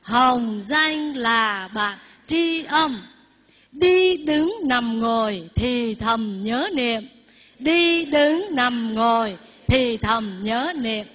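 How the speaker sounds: slow recitation for others to repeat; measured call-and-repeat reading; recited verse. Shown as a demonstration. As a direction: draw out each word for the group. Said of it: "Chúng ta đọc lại hai câu".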